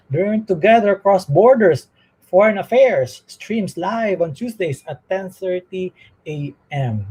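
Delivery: breathless after a long read; running out of breath. Real, not acted. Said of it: "trying to catch my breath".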